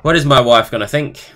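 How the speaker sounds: usual speaking voice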